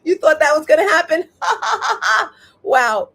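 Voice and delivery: high, loud mocking laughter; God laughing at you. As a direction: laugh hard at a foolish plan, then jeer. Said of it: "God looks at your plans and then he laughs".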